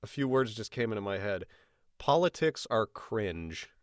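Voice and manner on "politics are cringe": slow. Real, not acted. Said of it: "very clearly".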